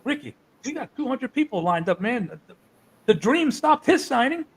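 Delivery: high-pitched, protesting wrestler impression; Dusty. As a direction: imitate him pleading his case, pitched high. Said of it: "And Dusty goes".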